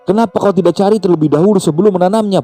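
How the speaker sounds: high-pitched exasperated reproach; heated, high telling-off; angry scolding. A narrator's reading. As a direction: berate him for his foolishness. Grandmother scolds Riyad for failing.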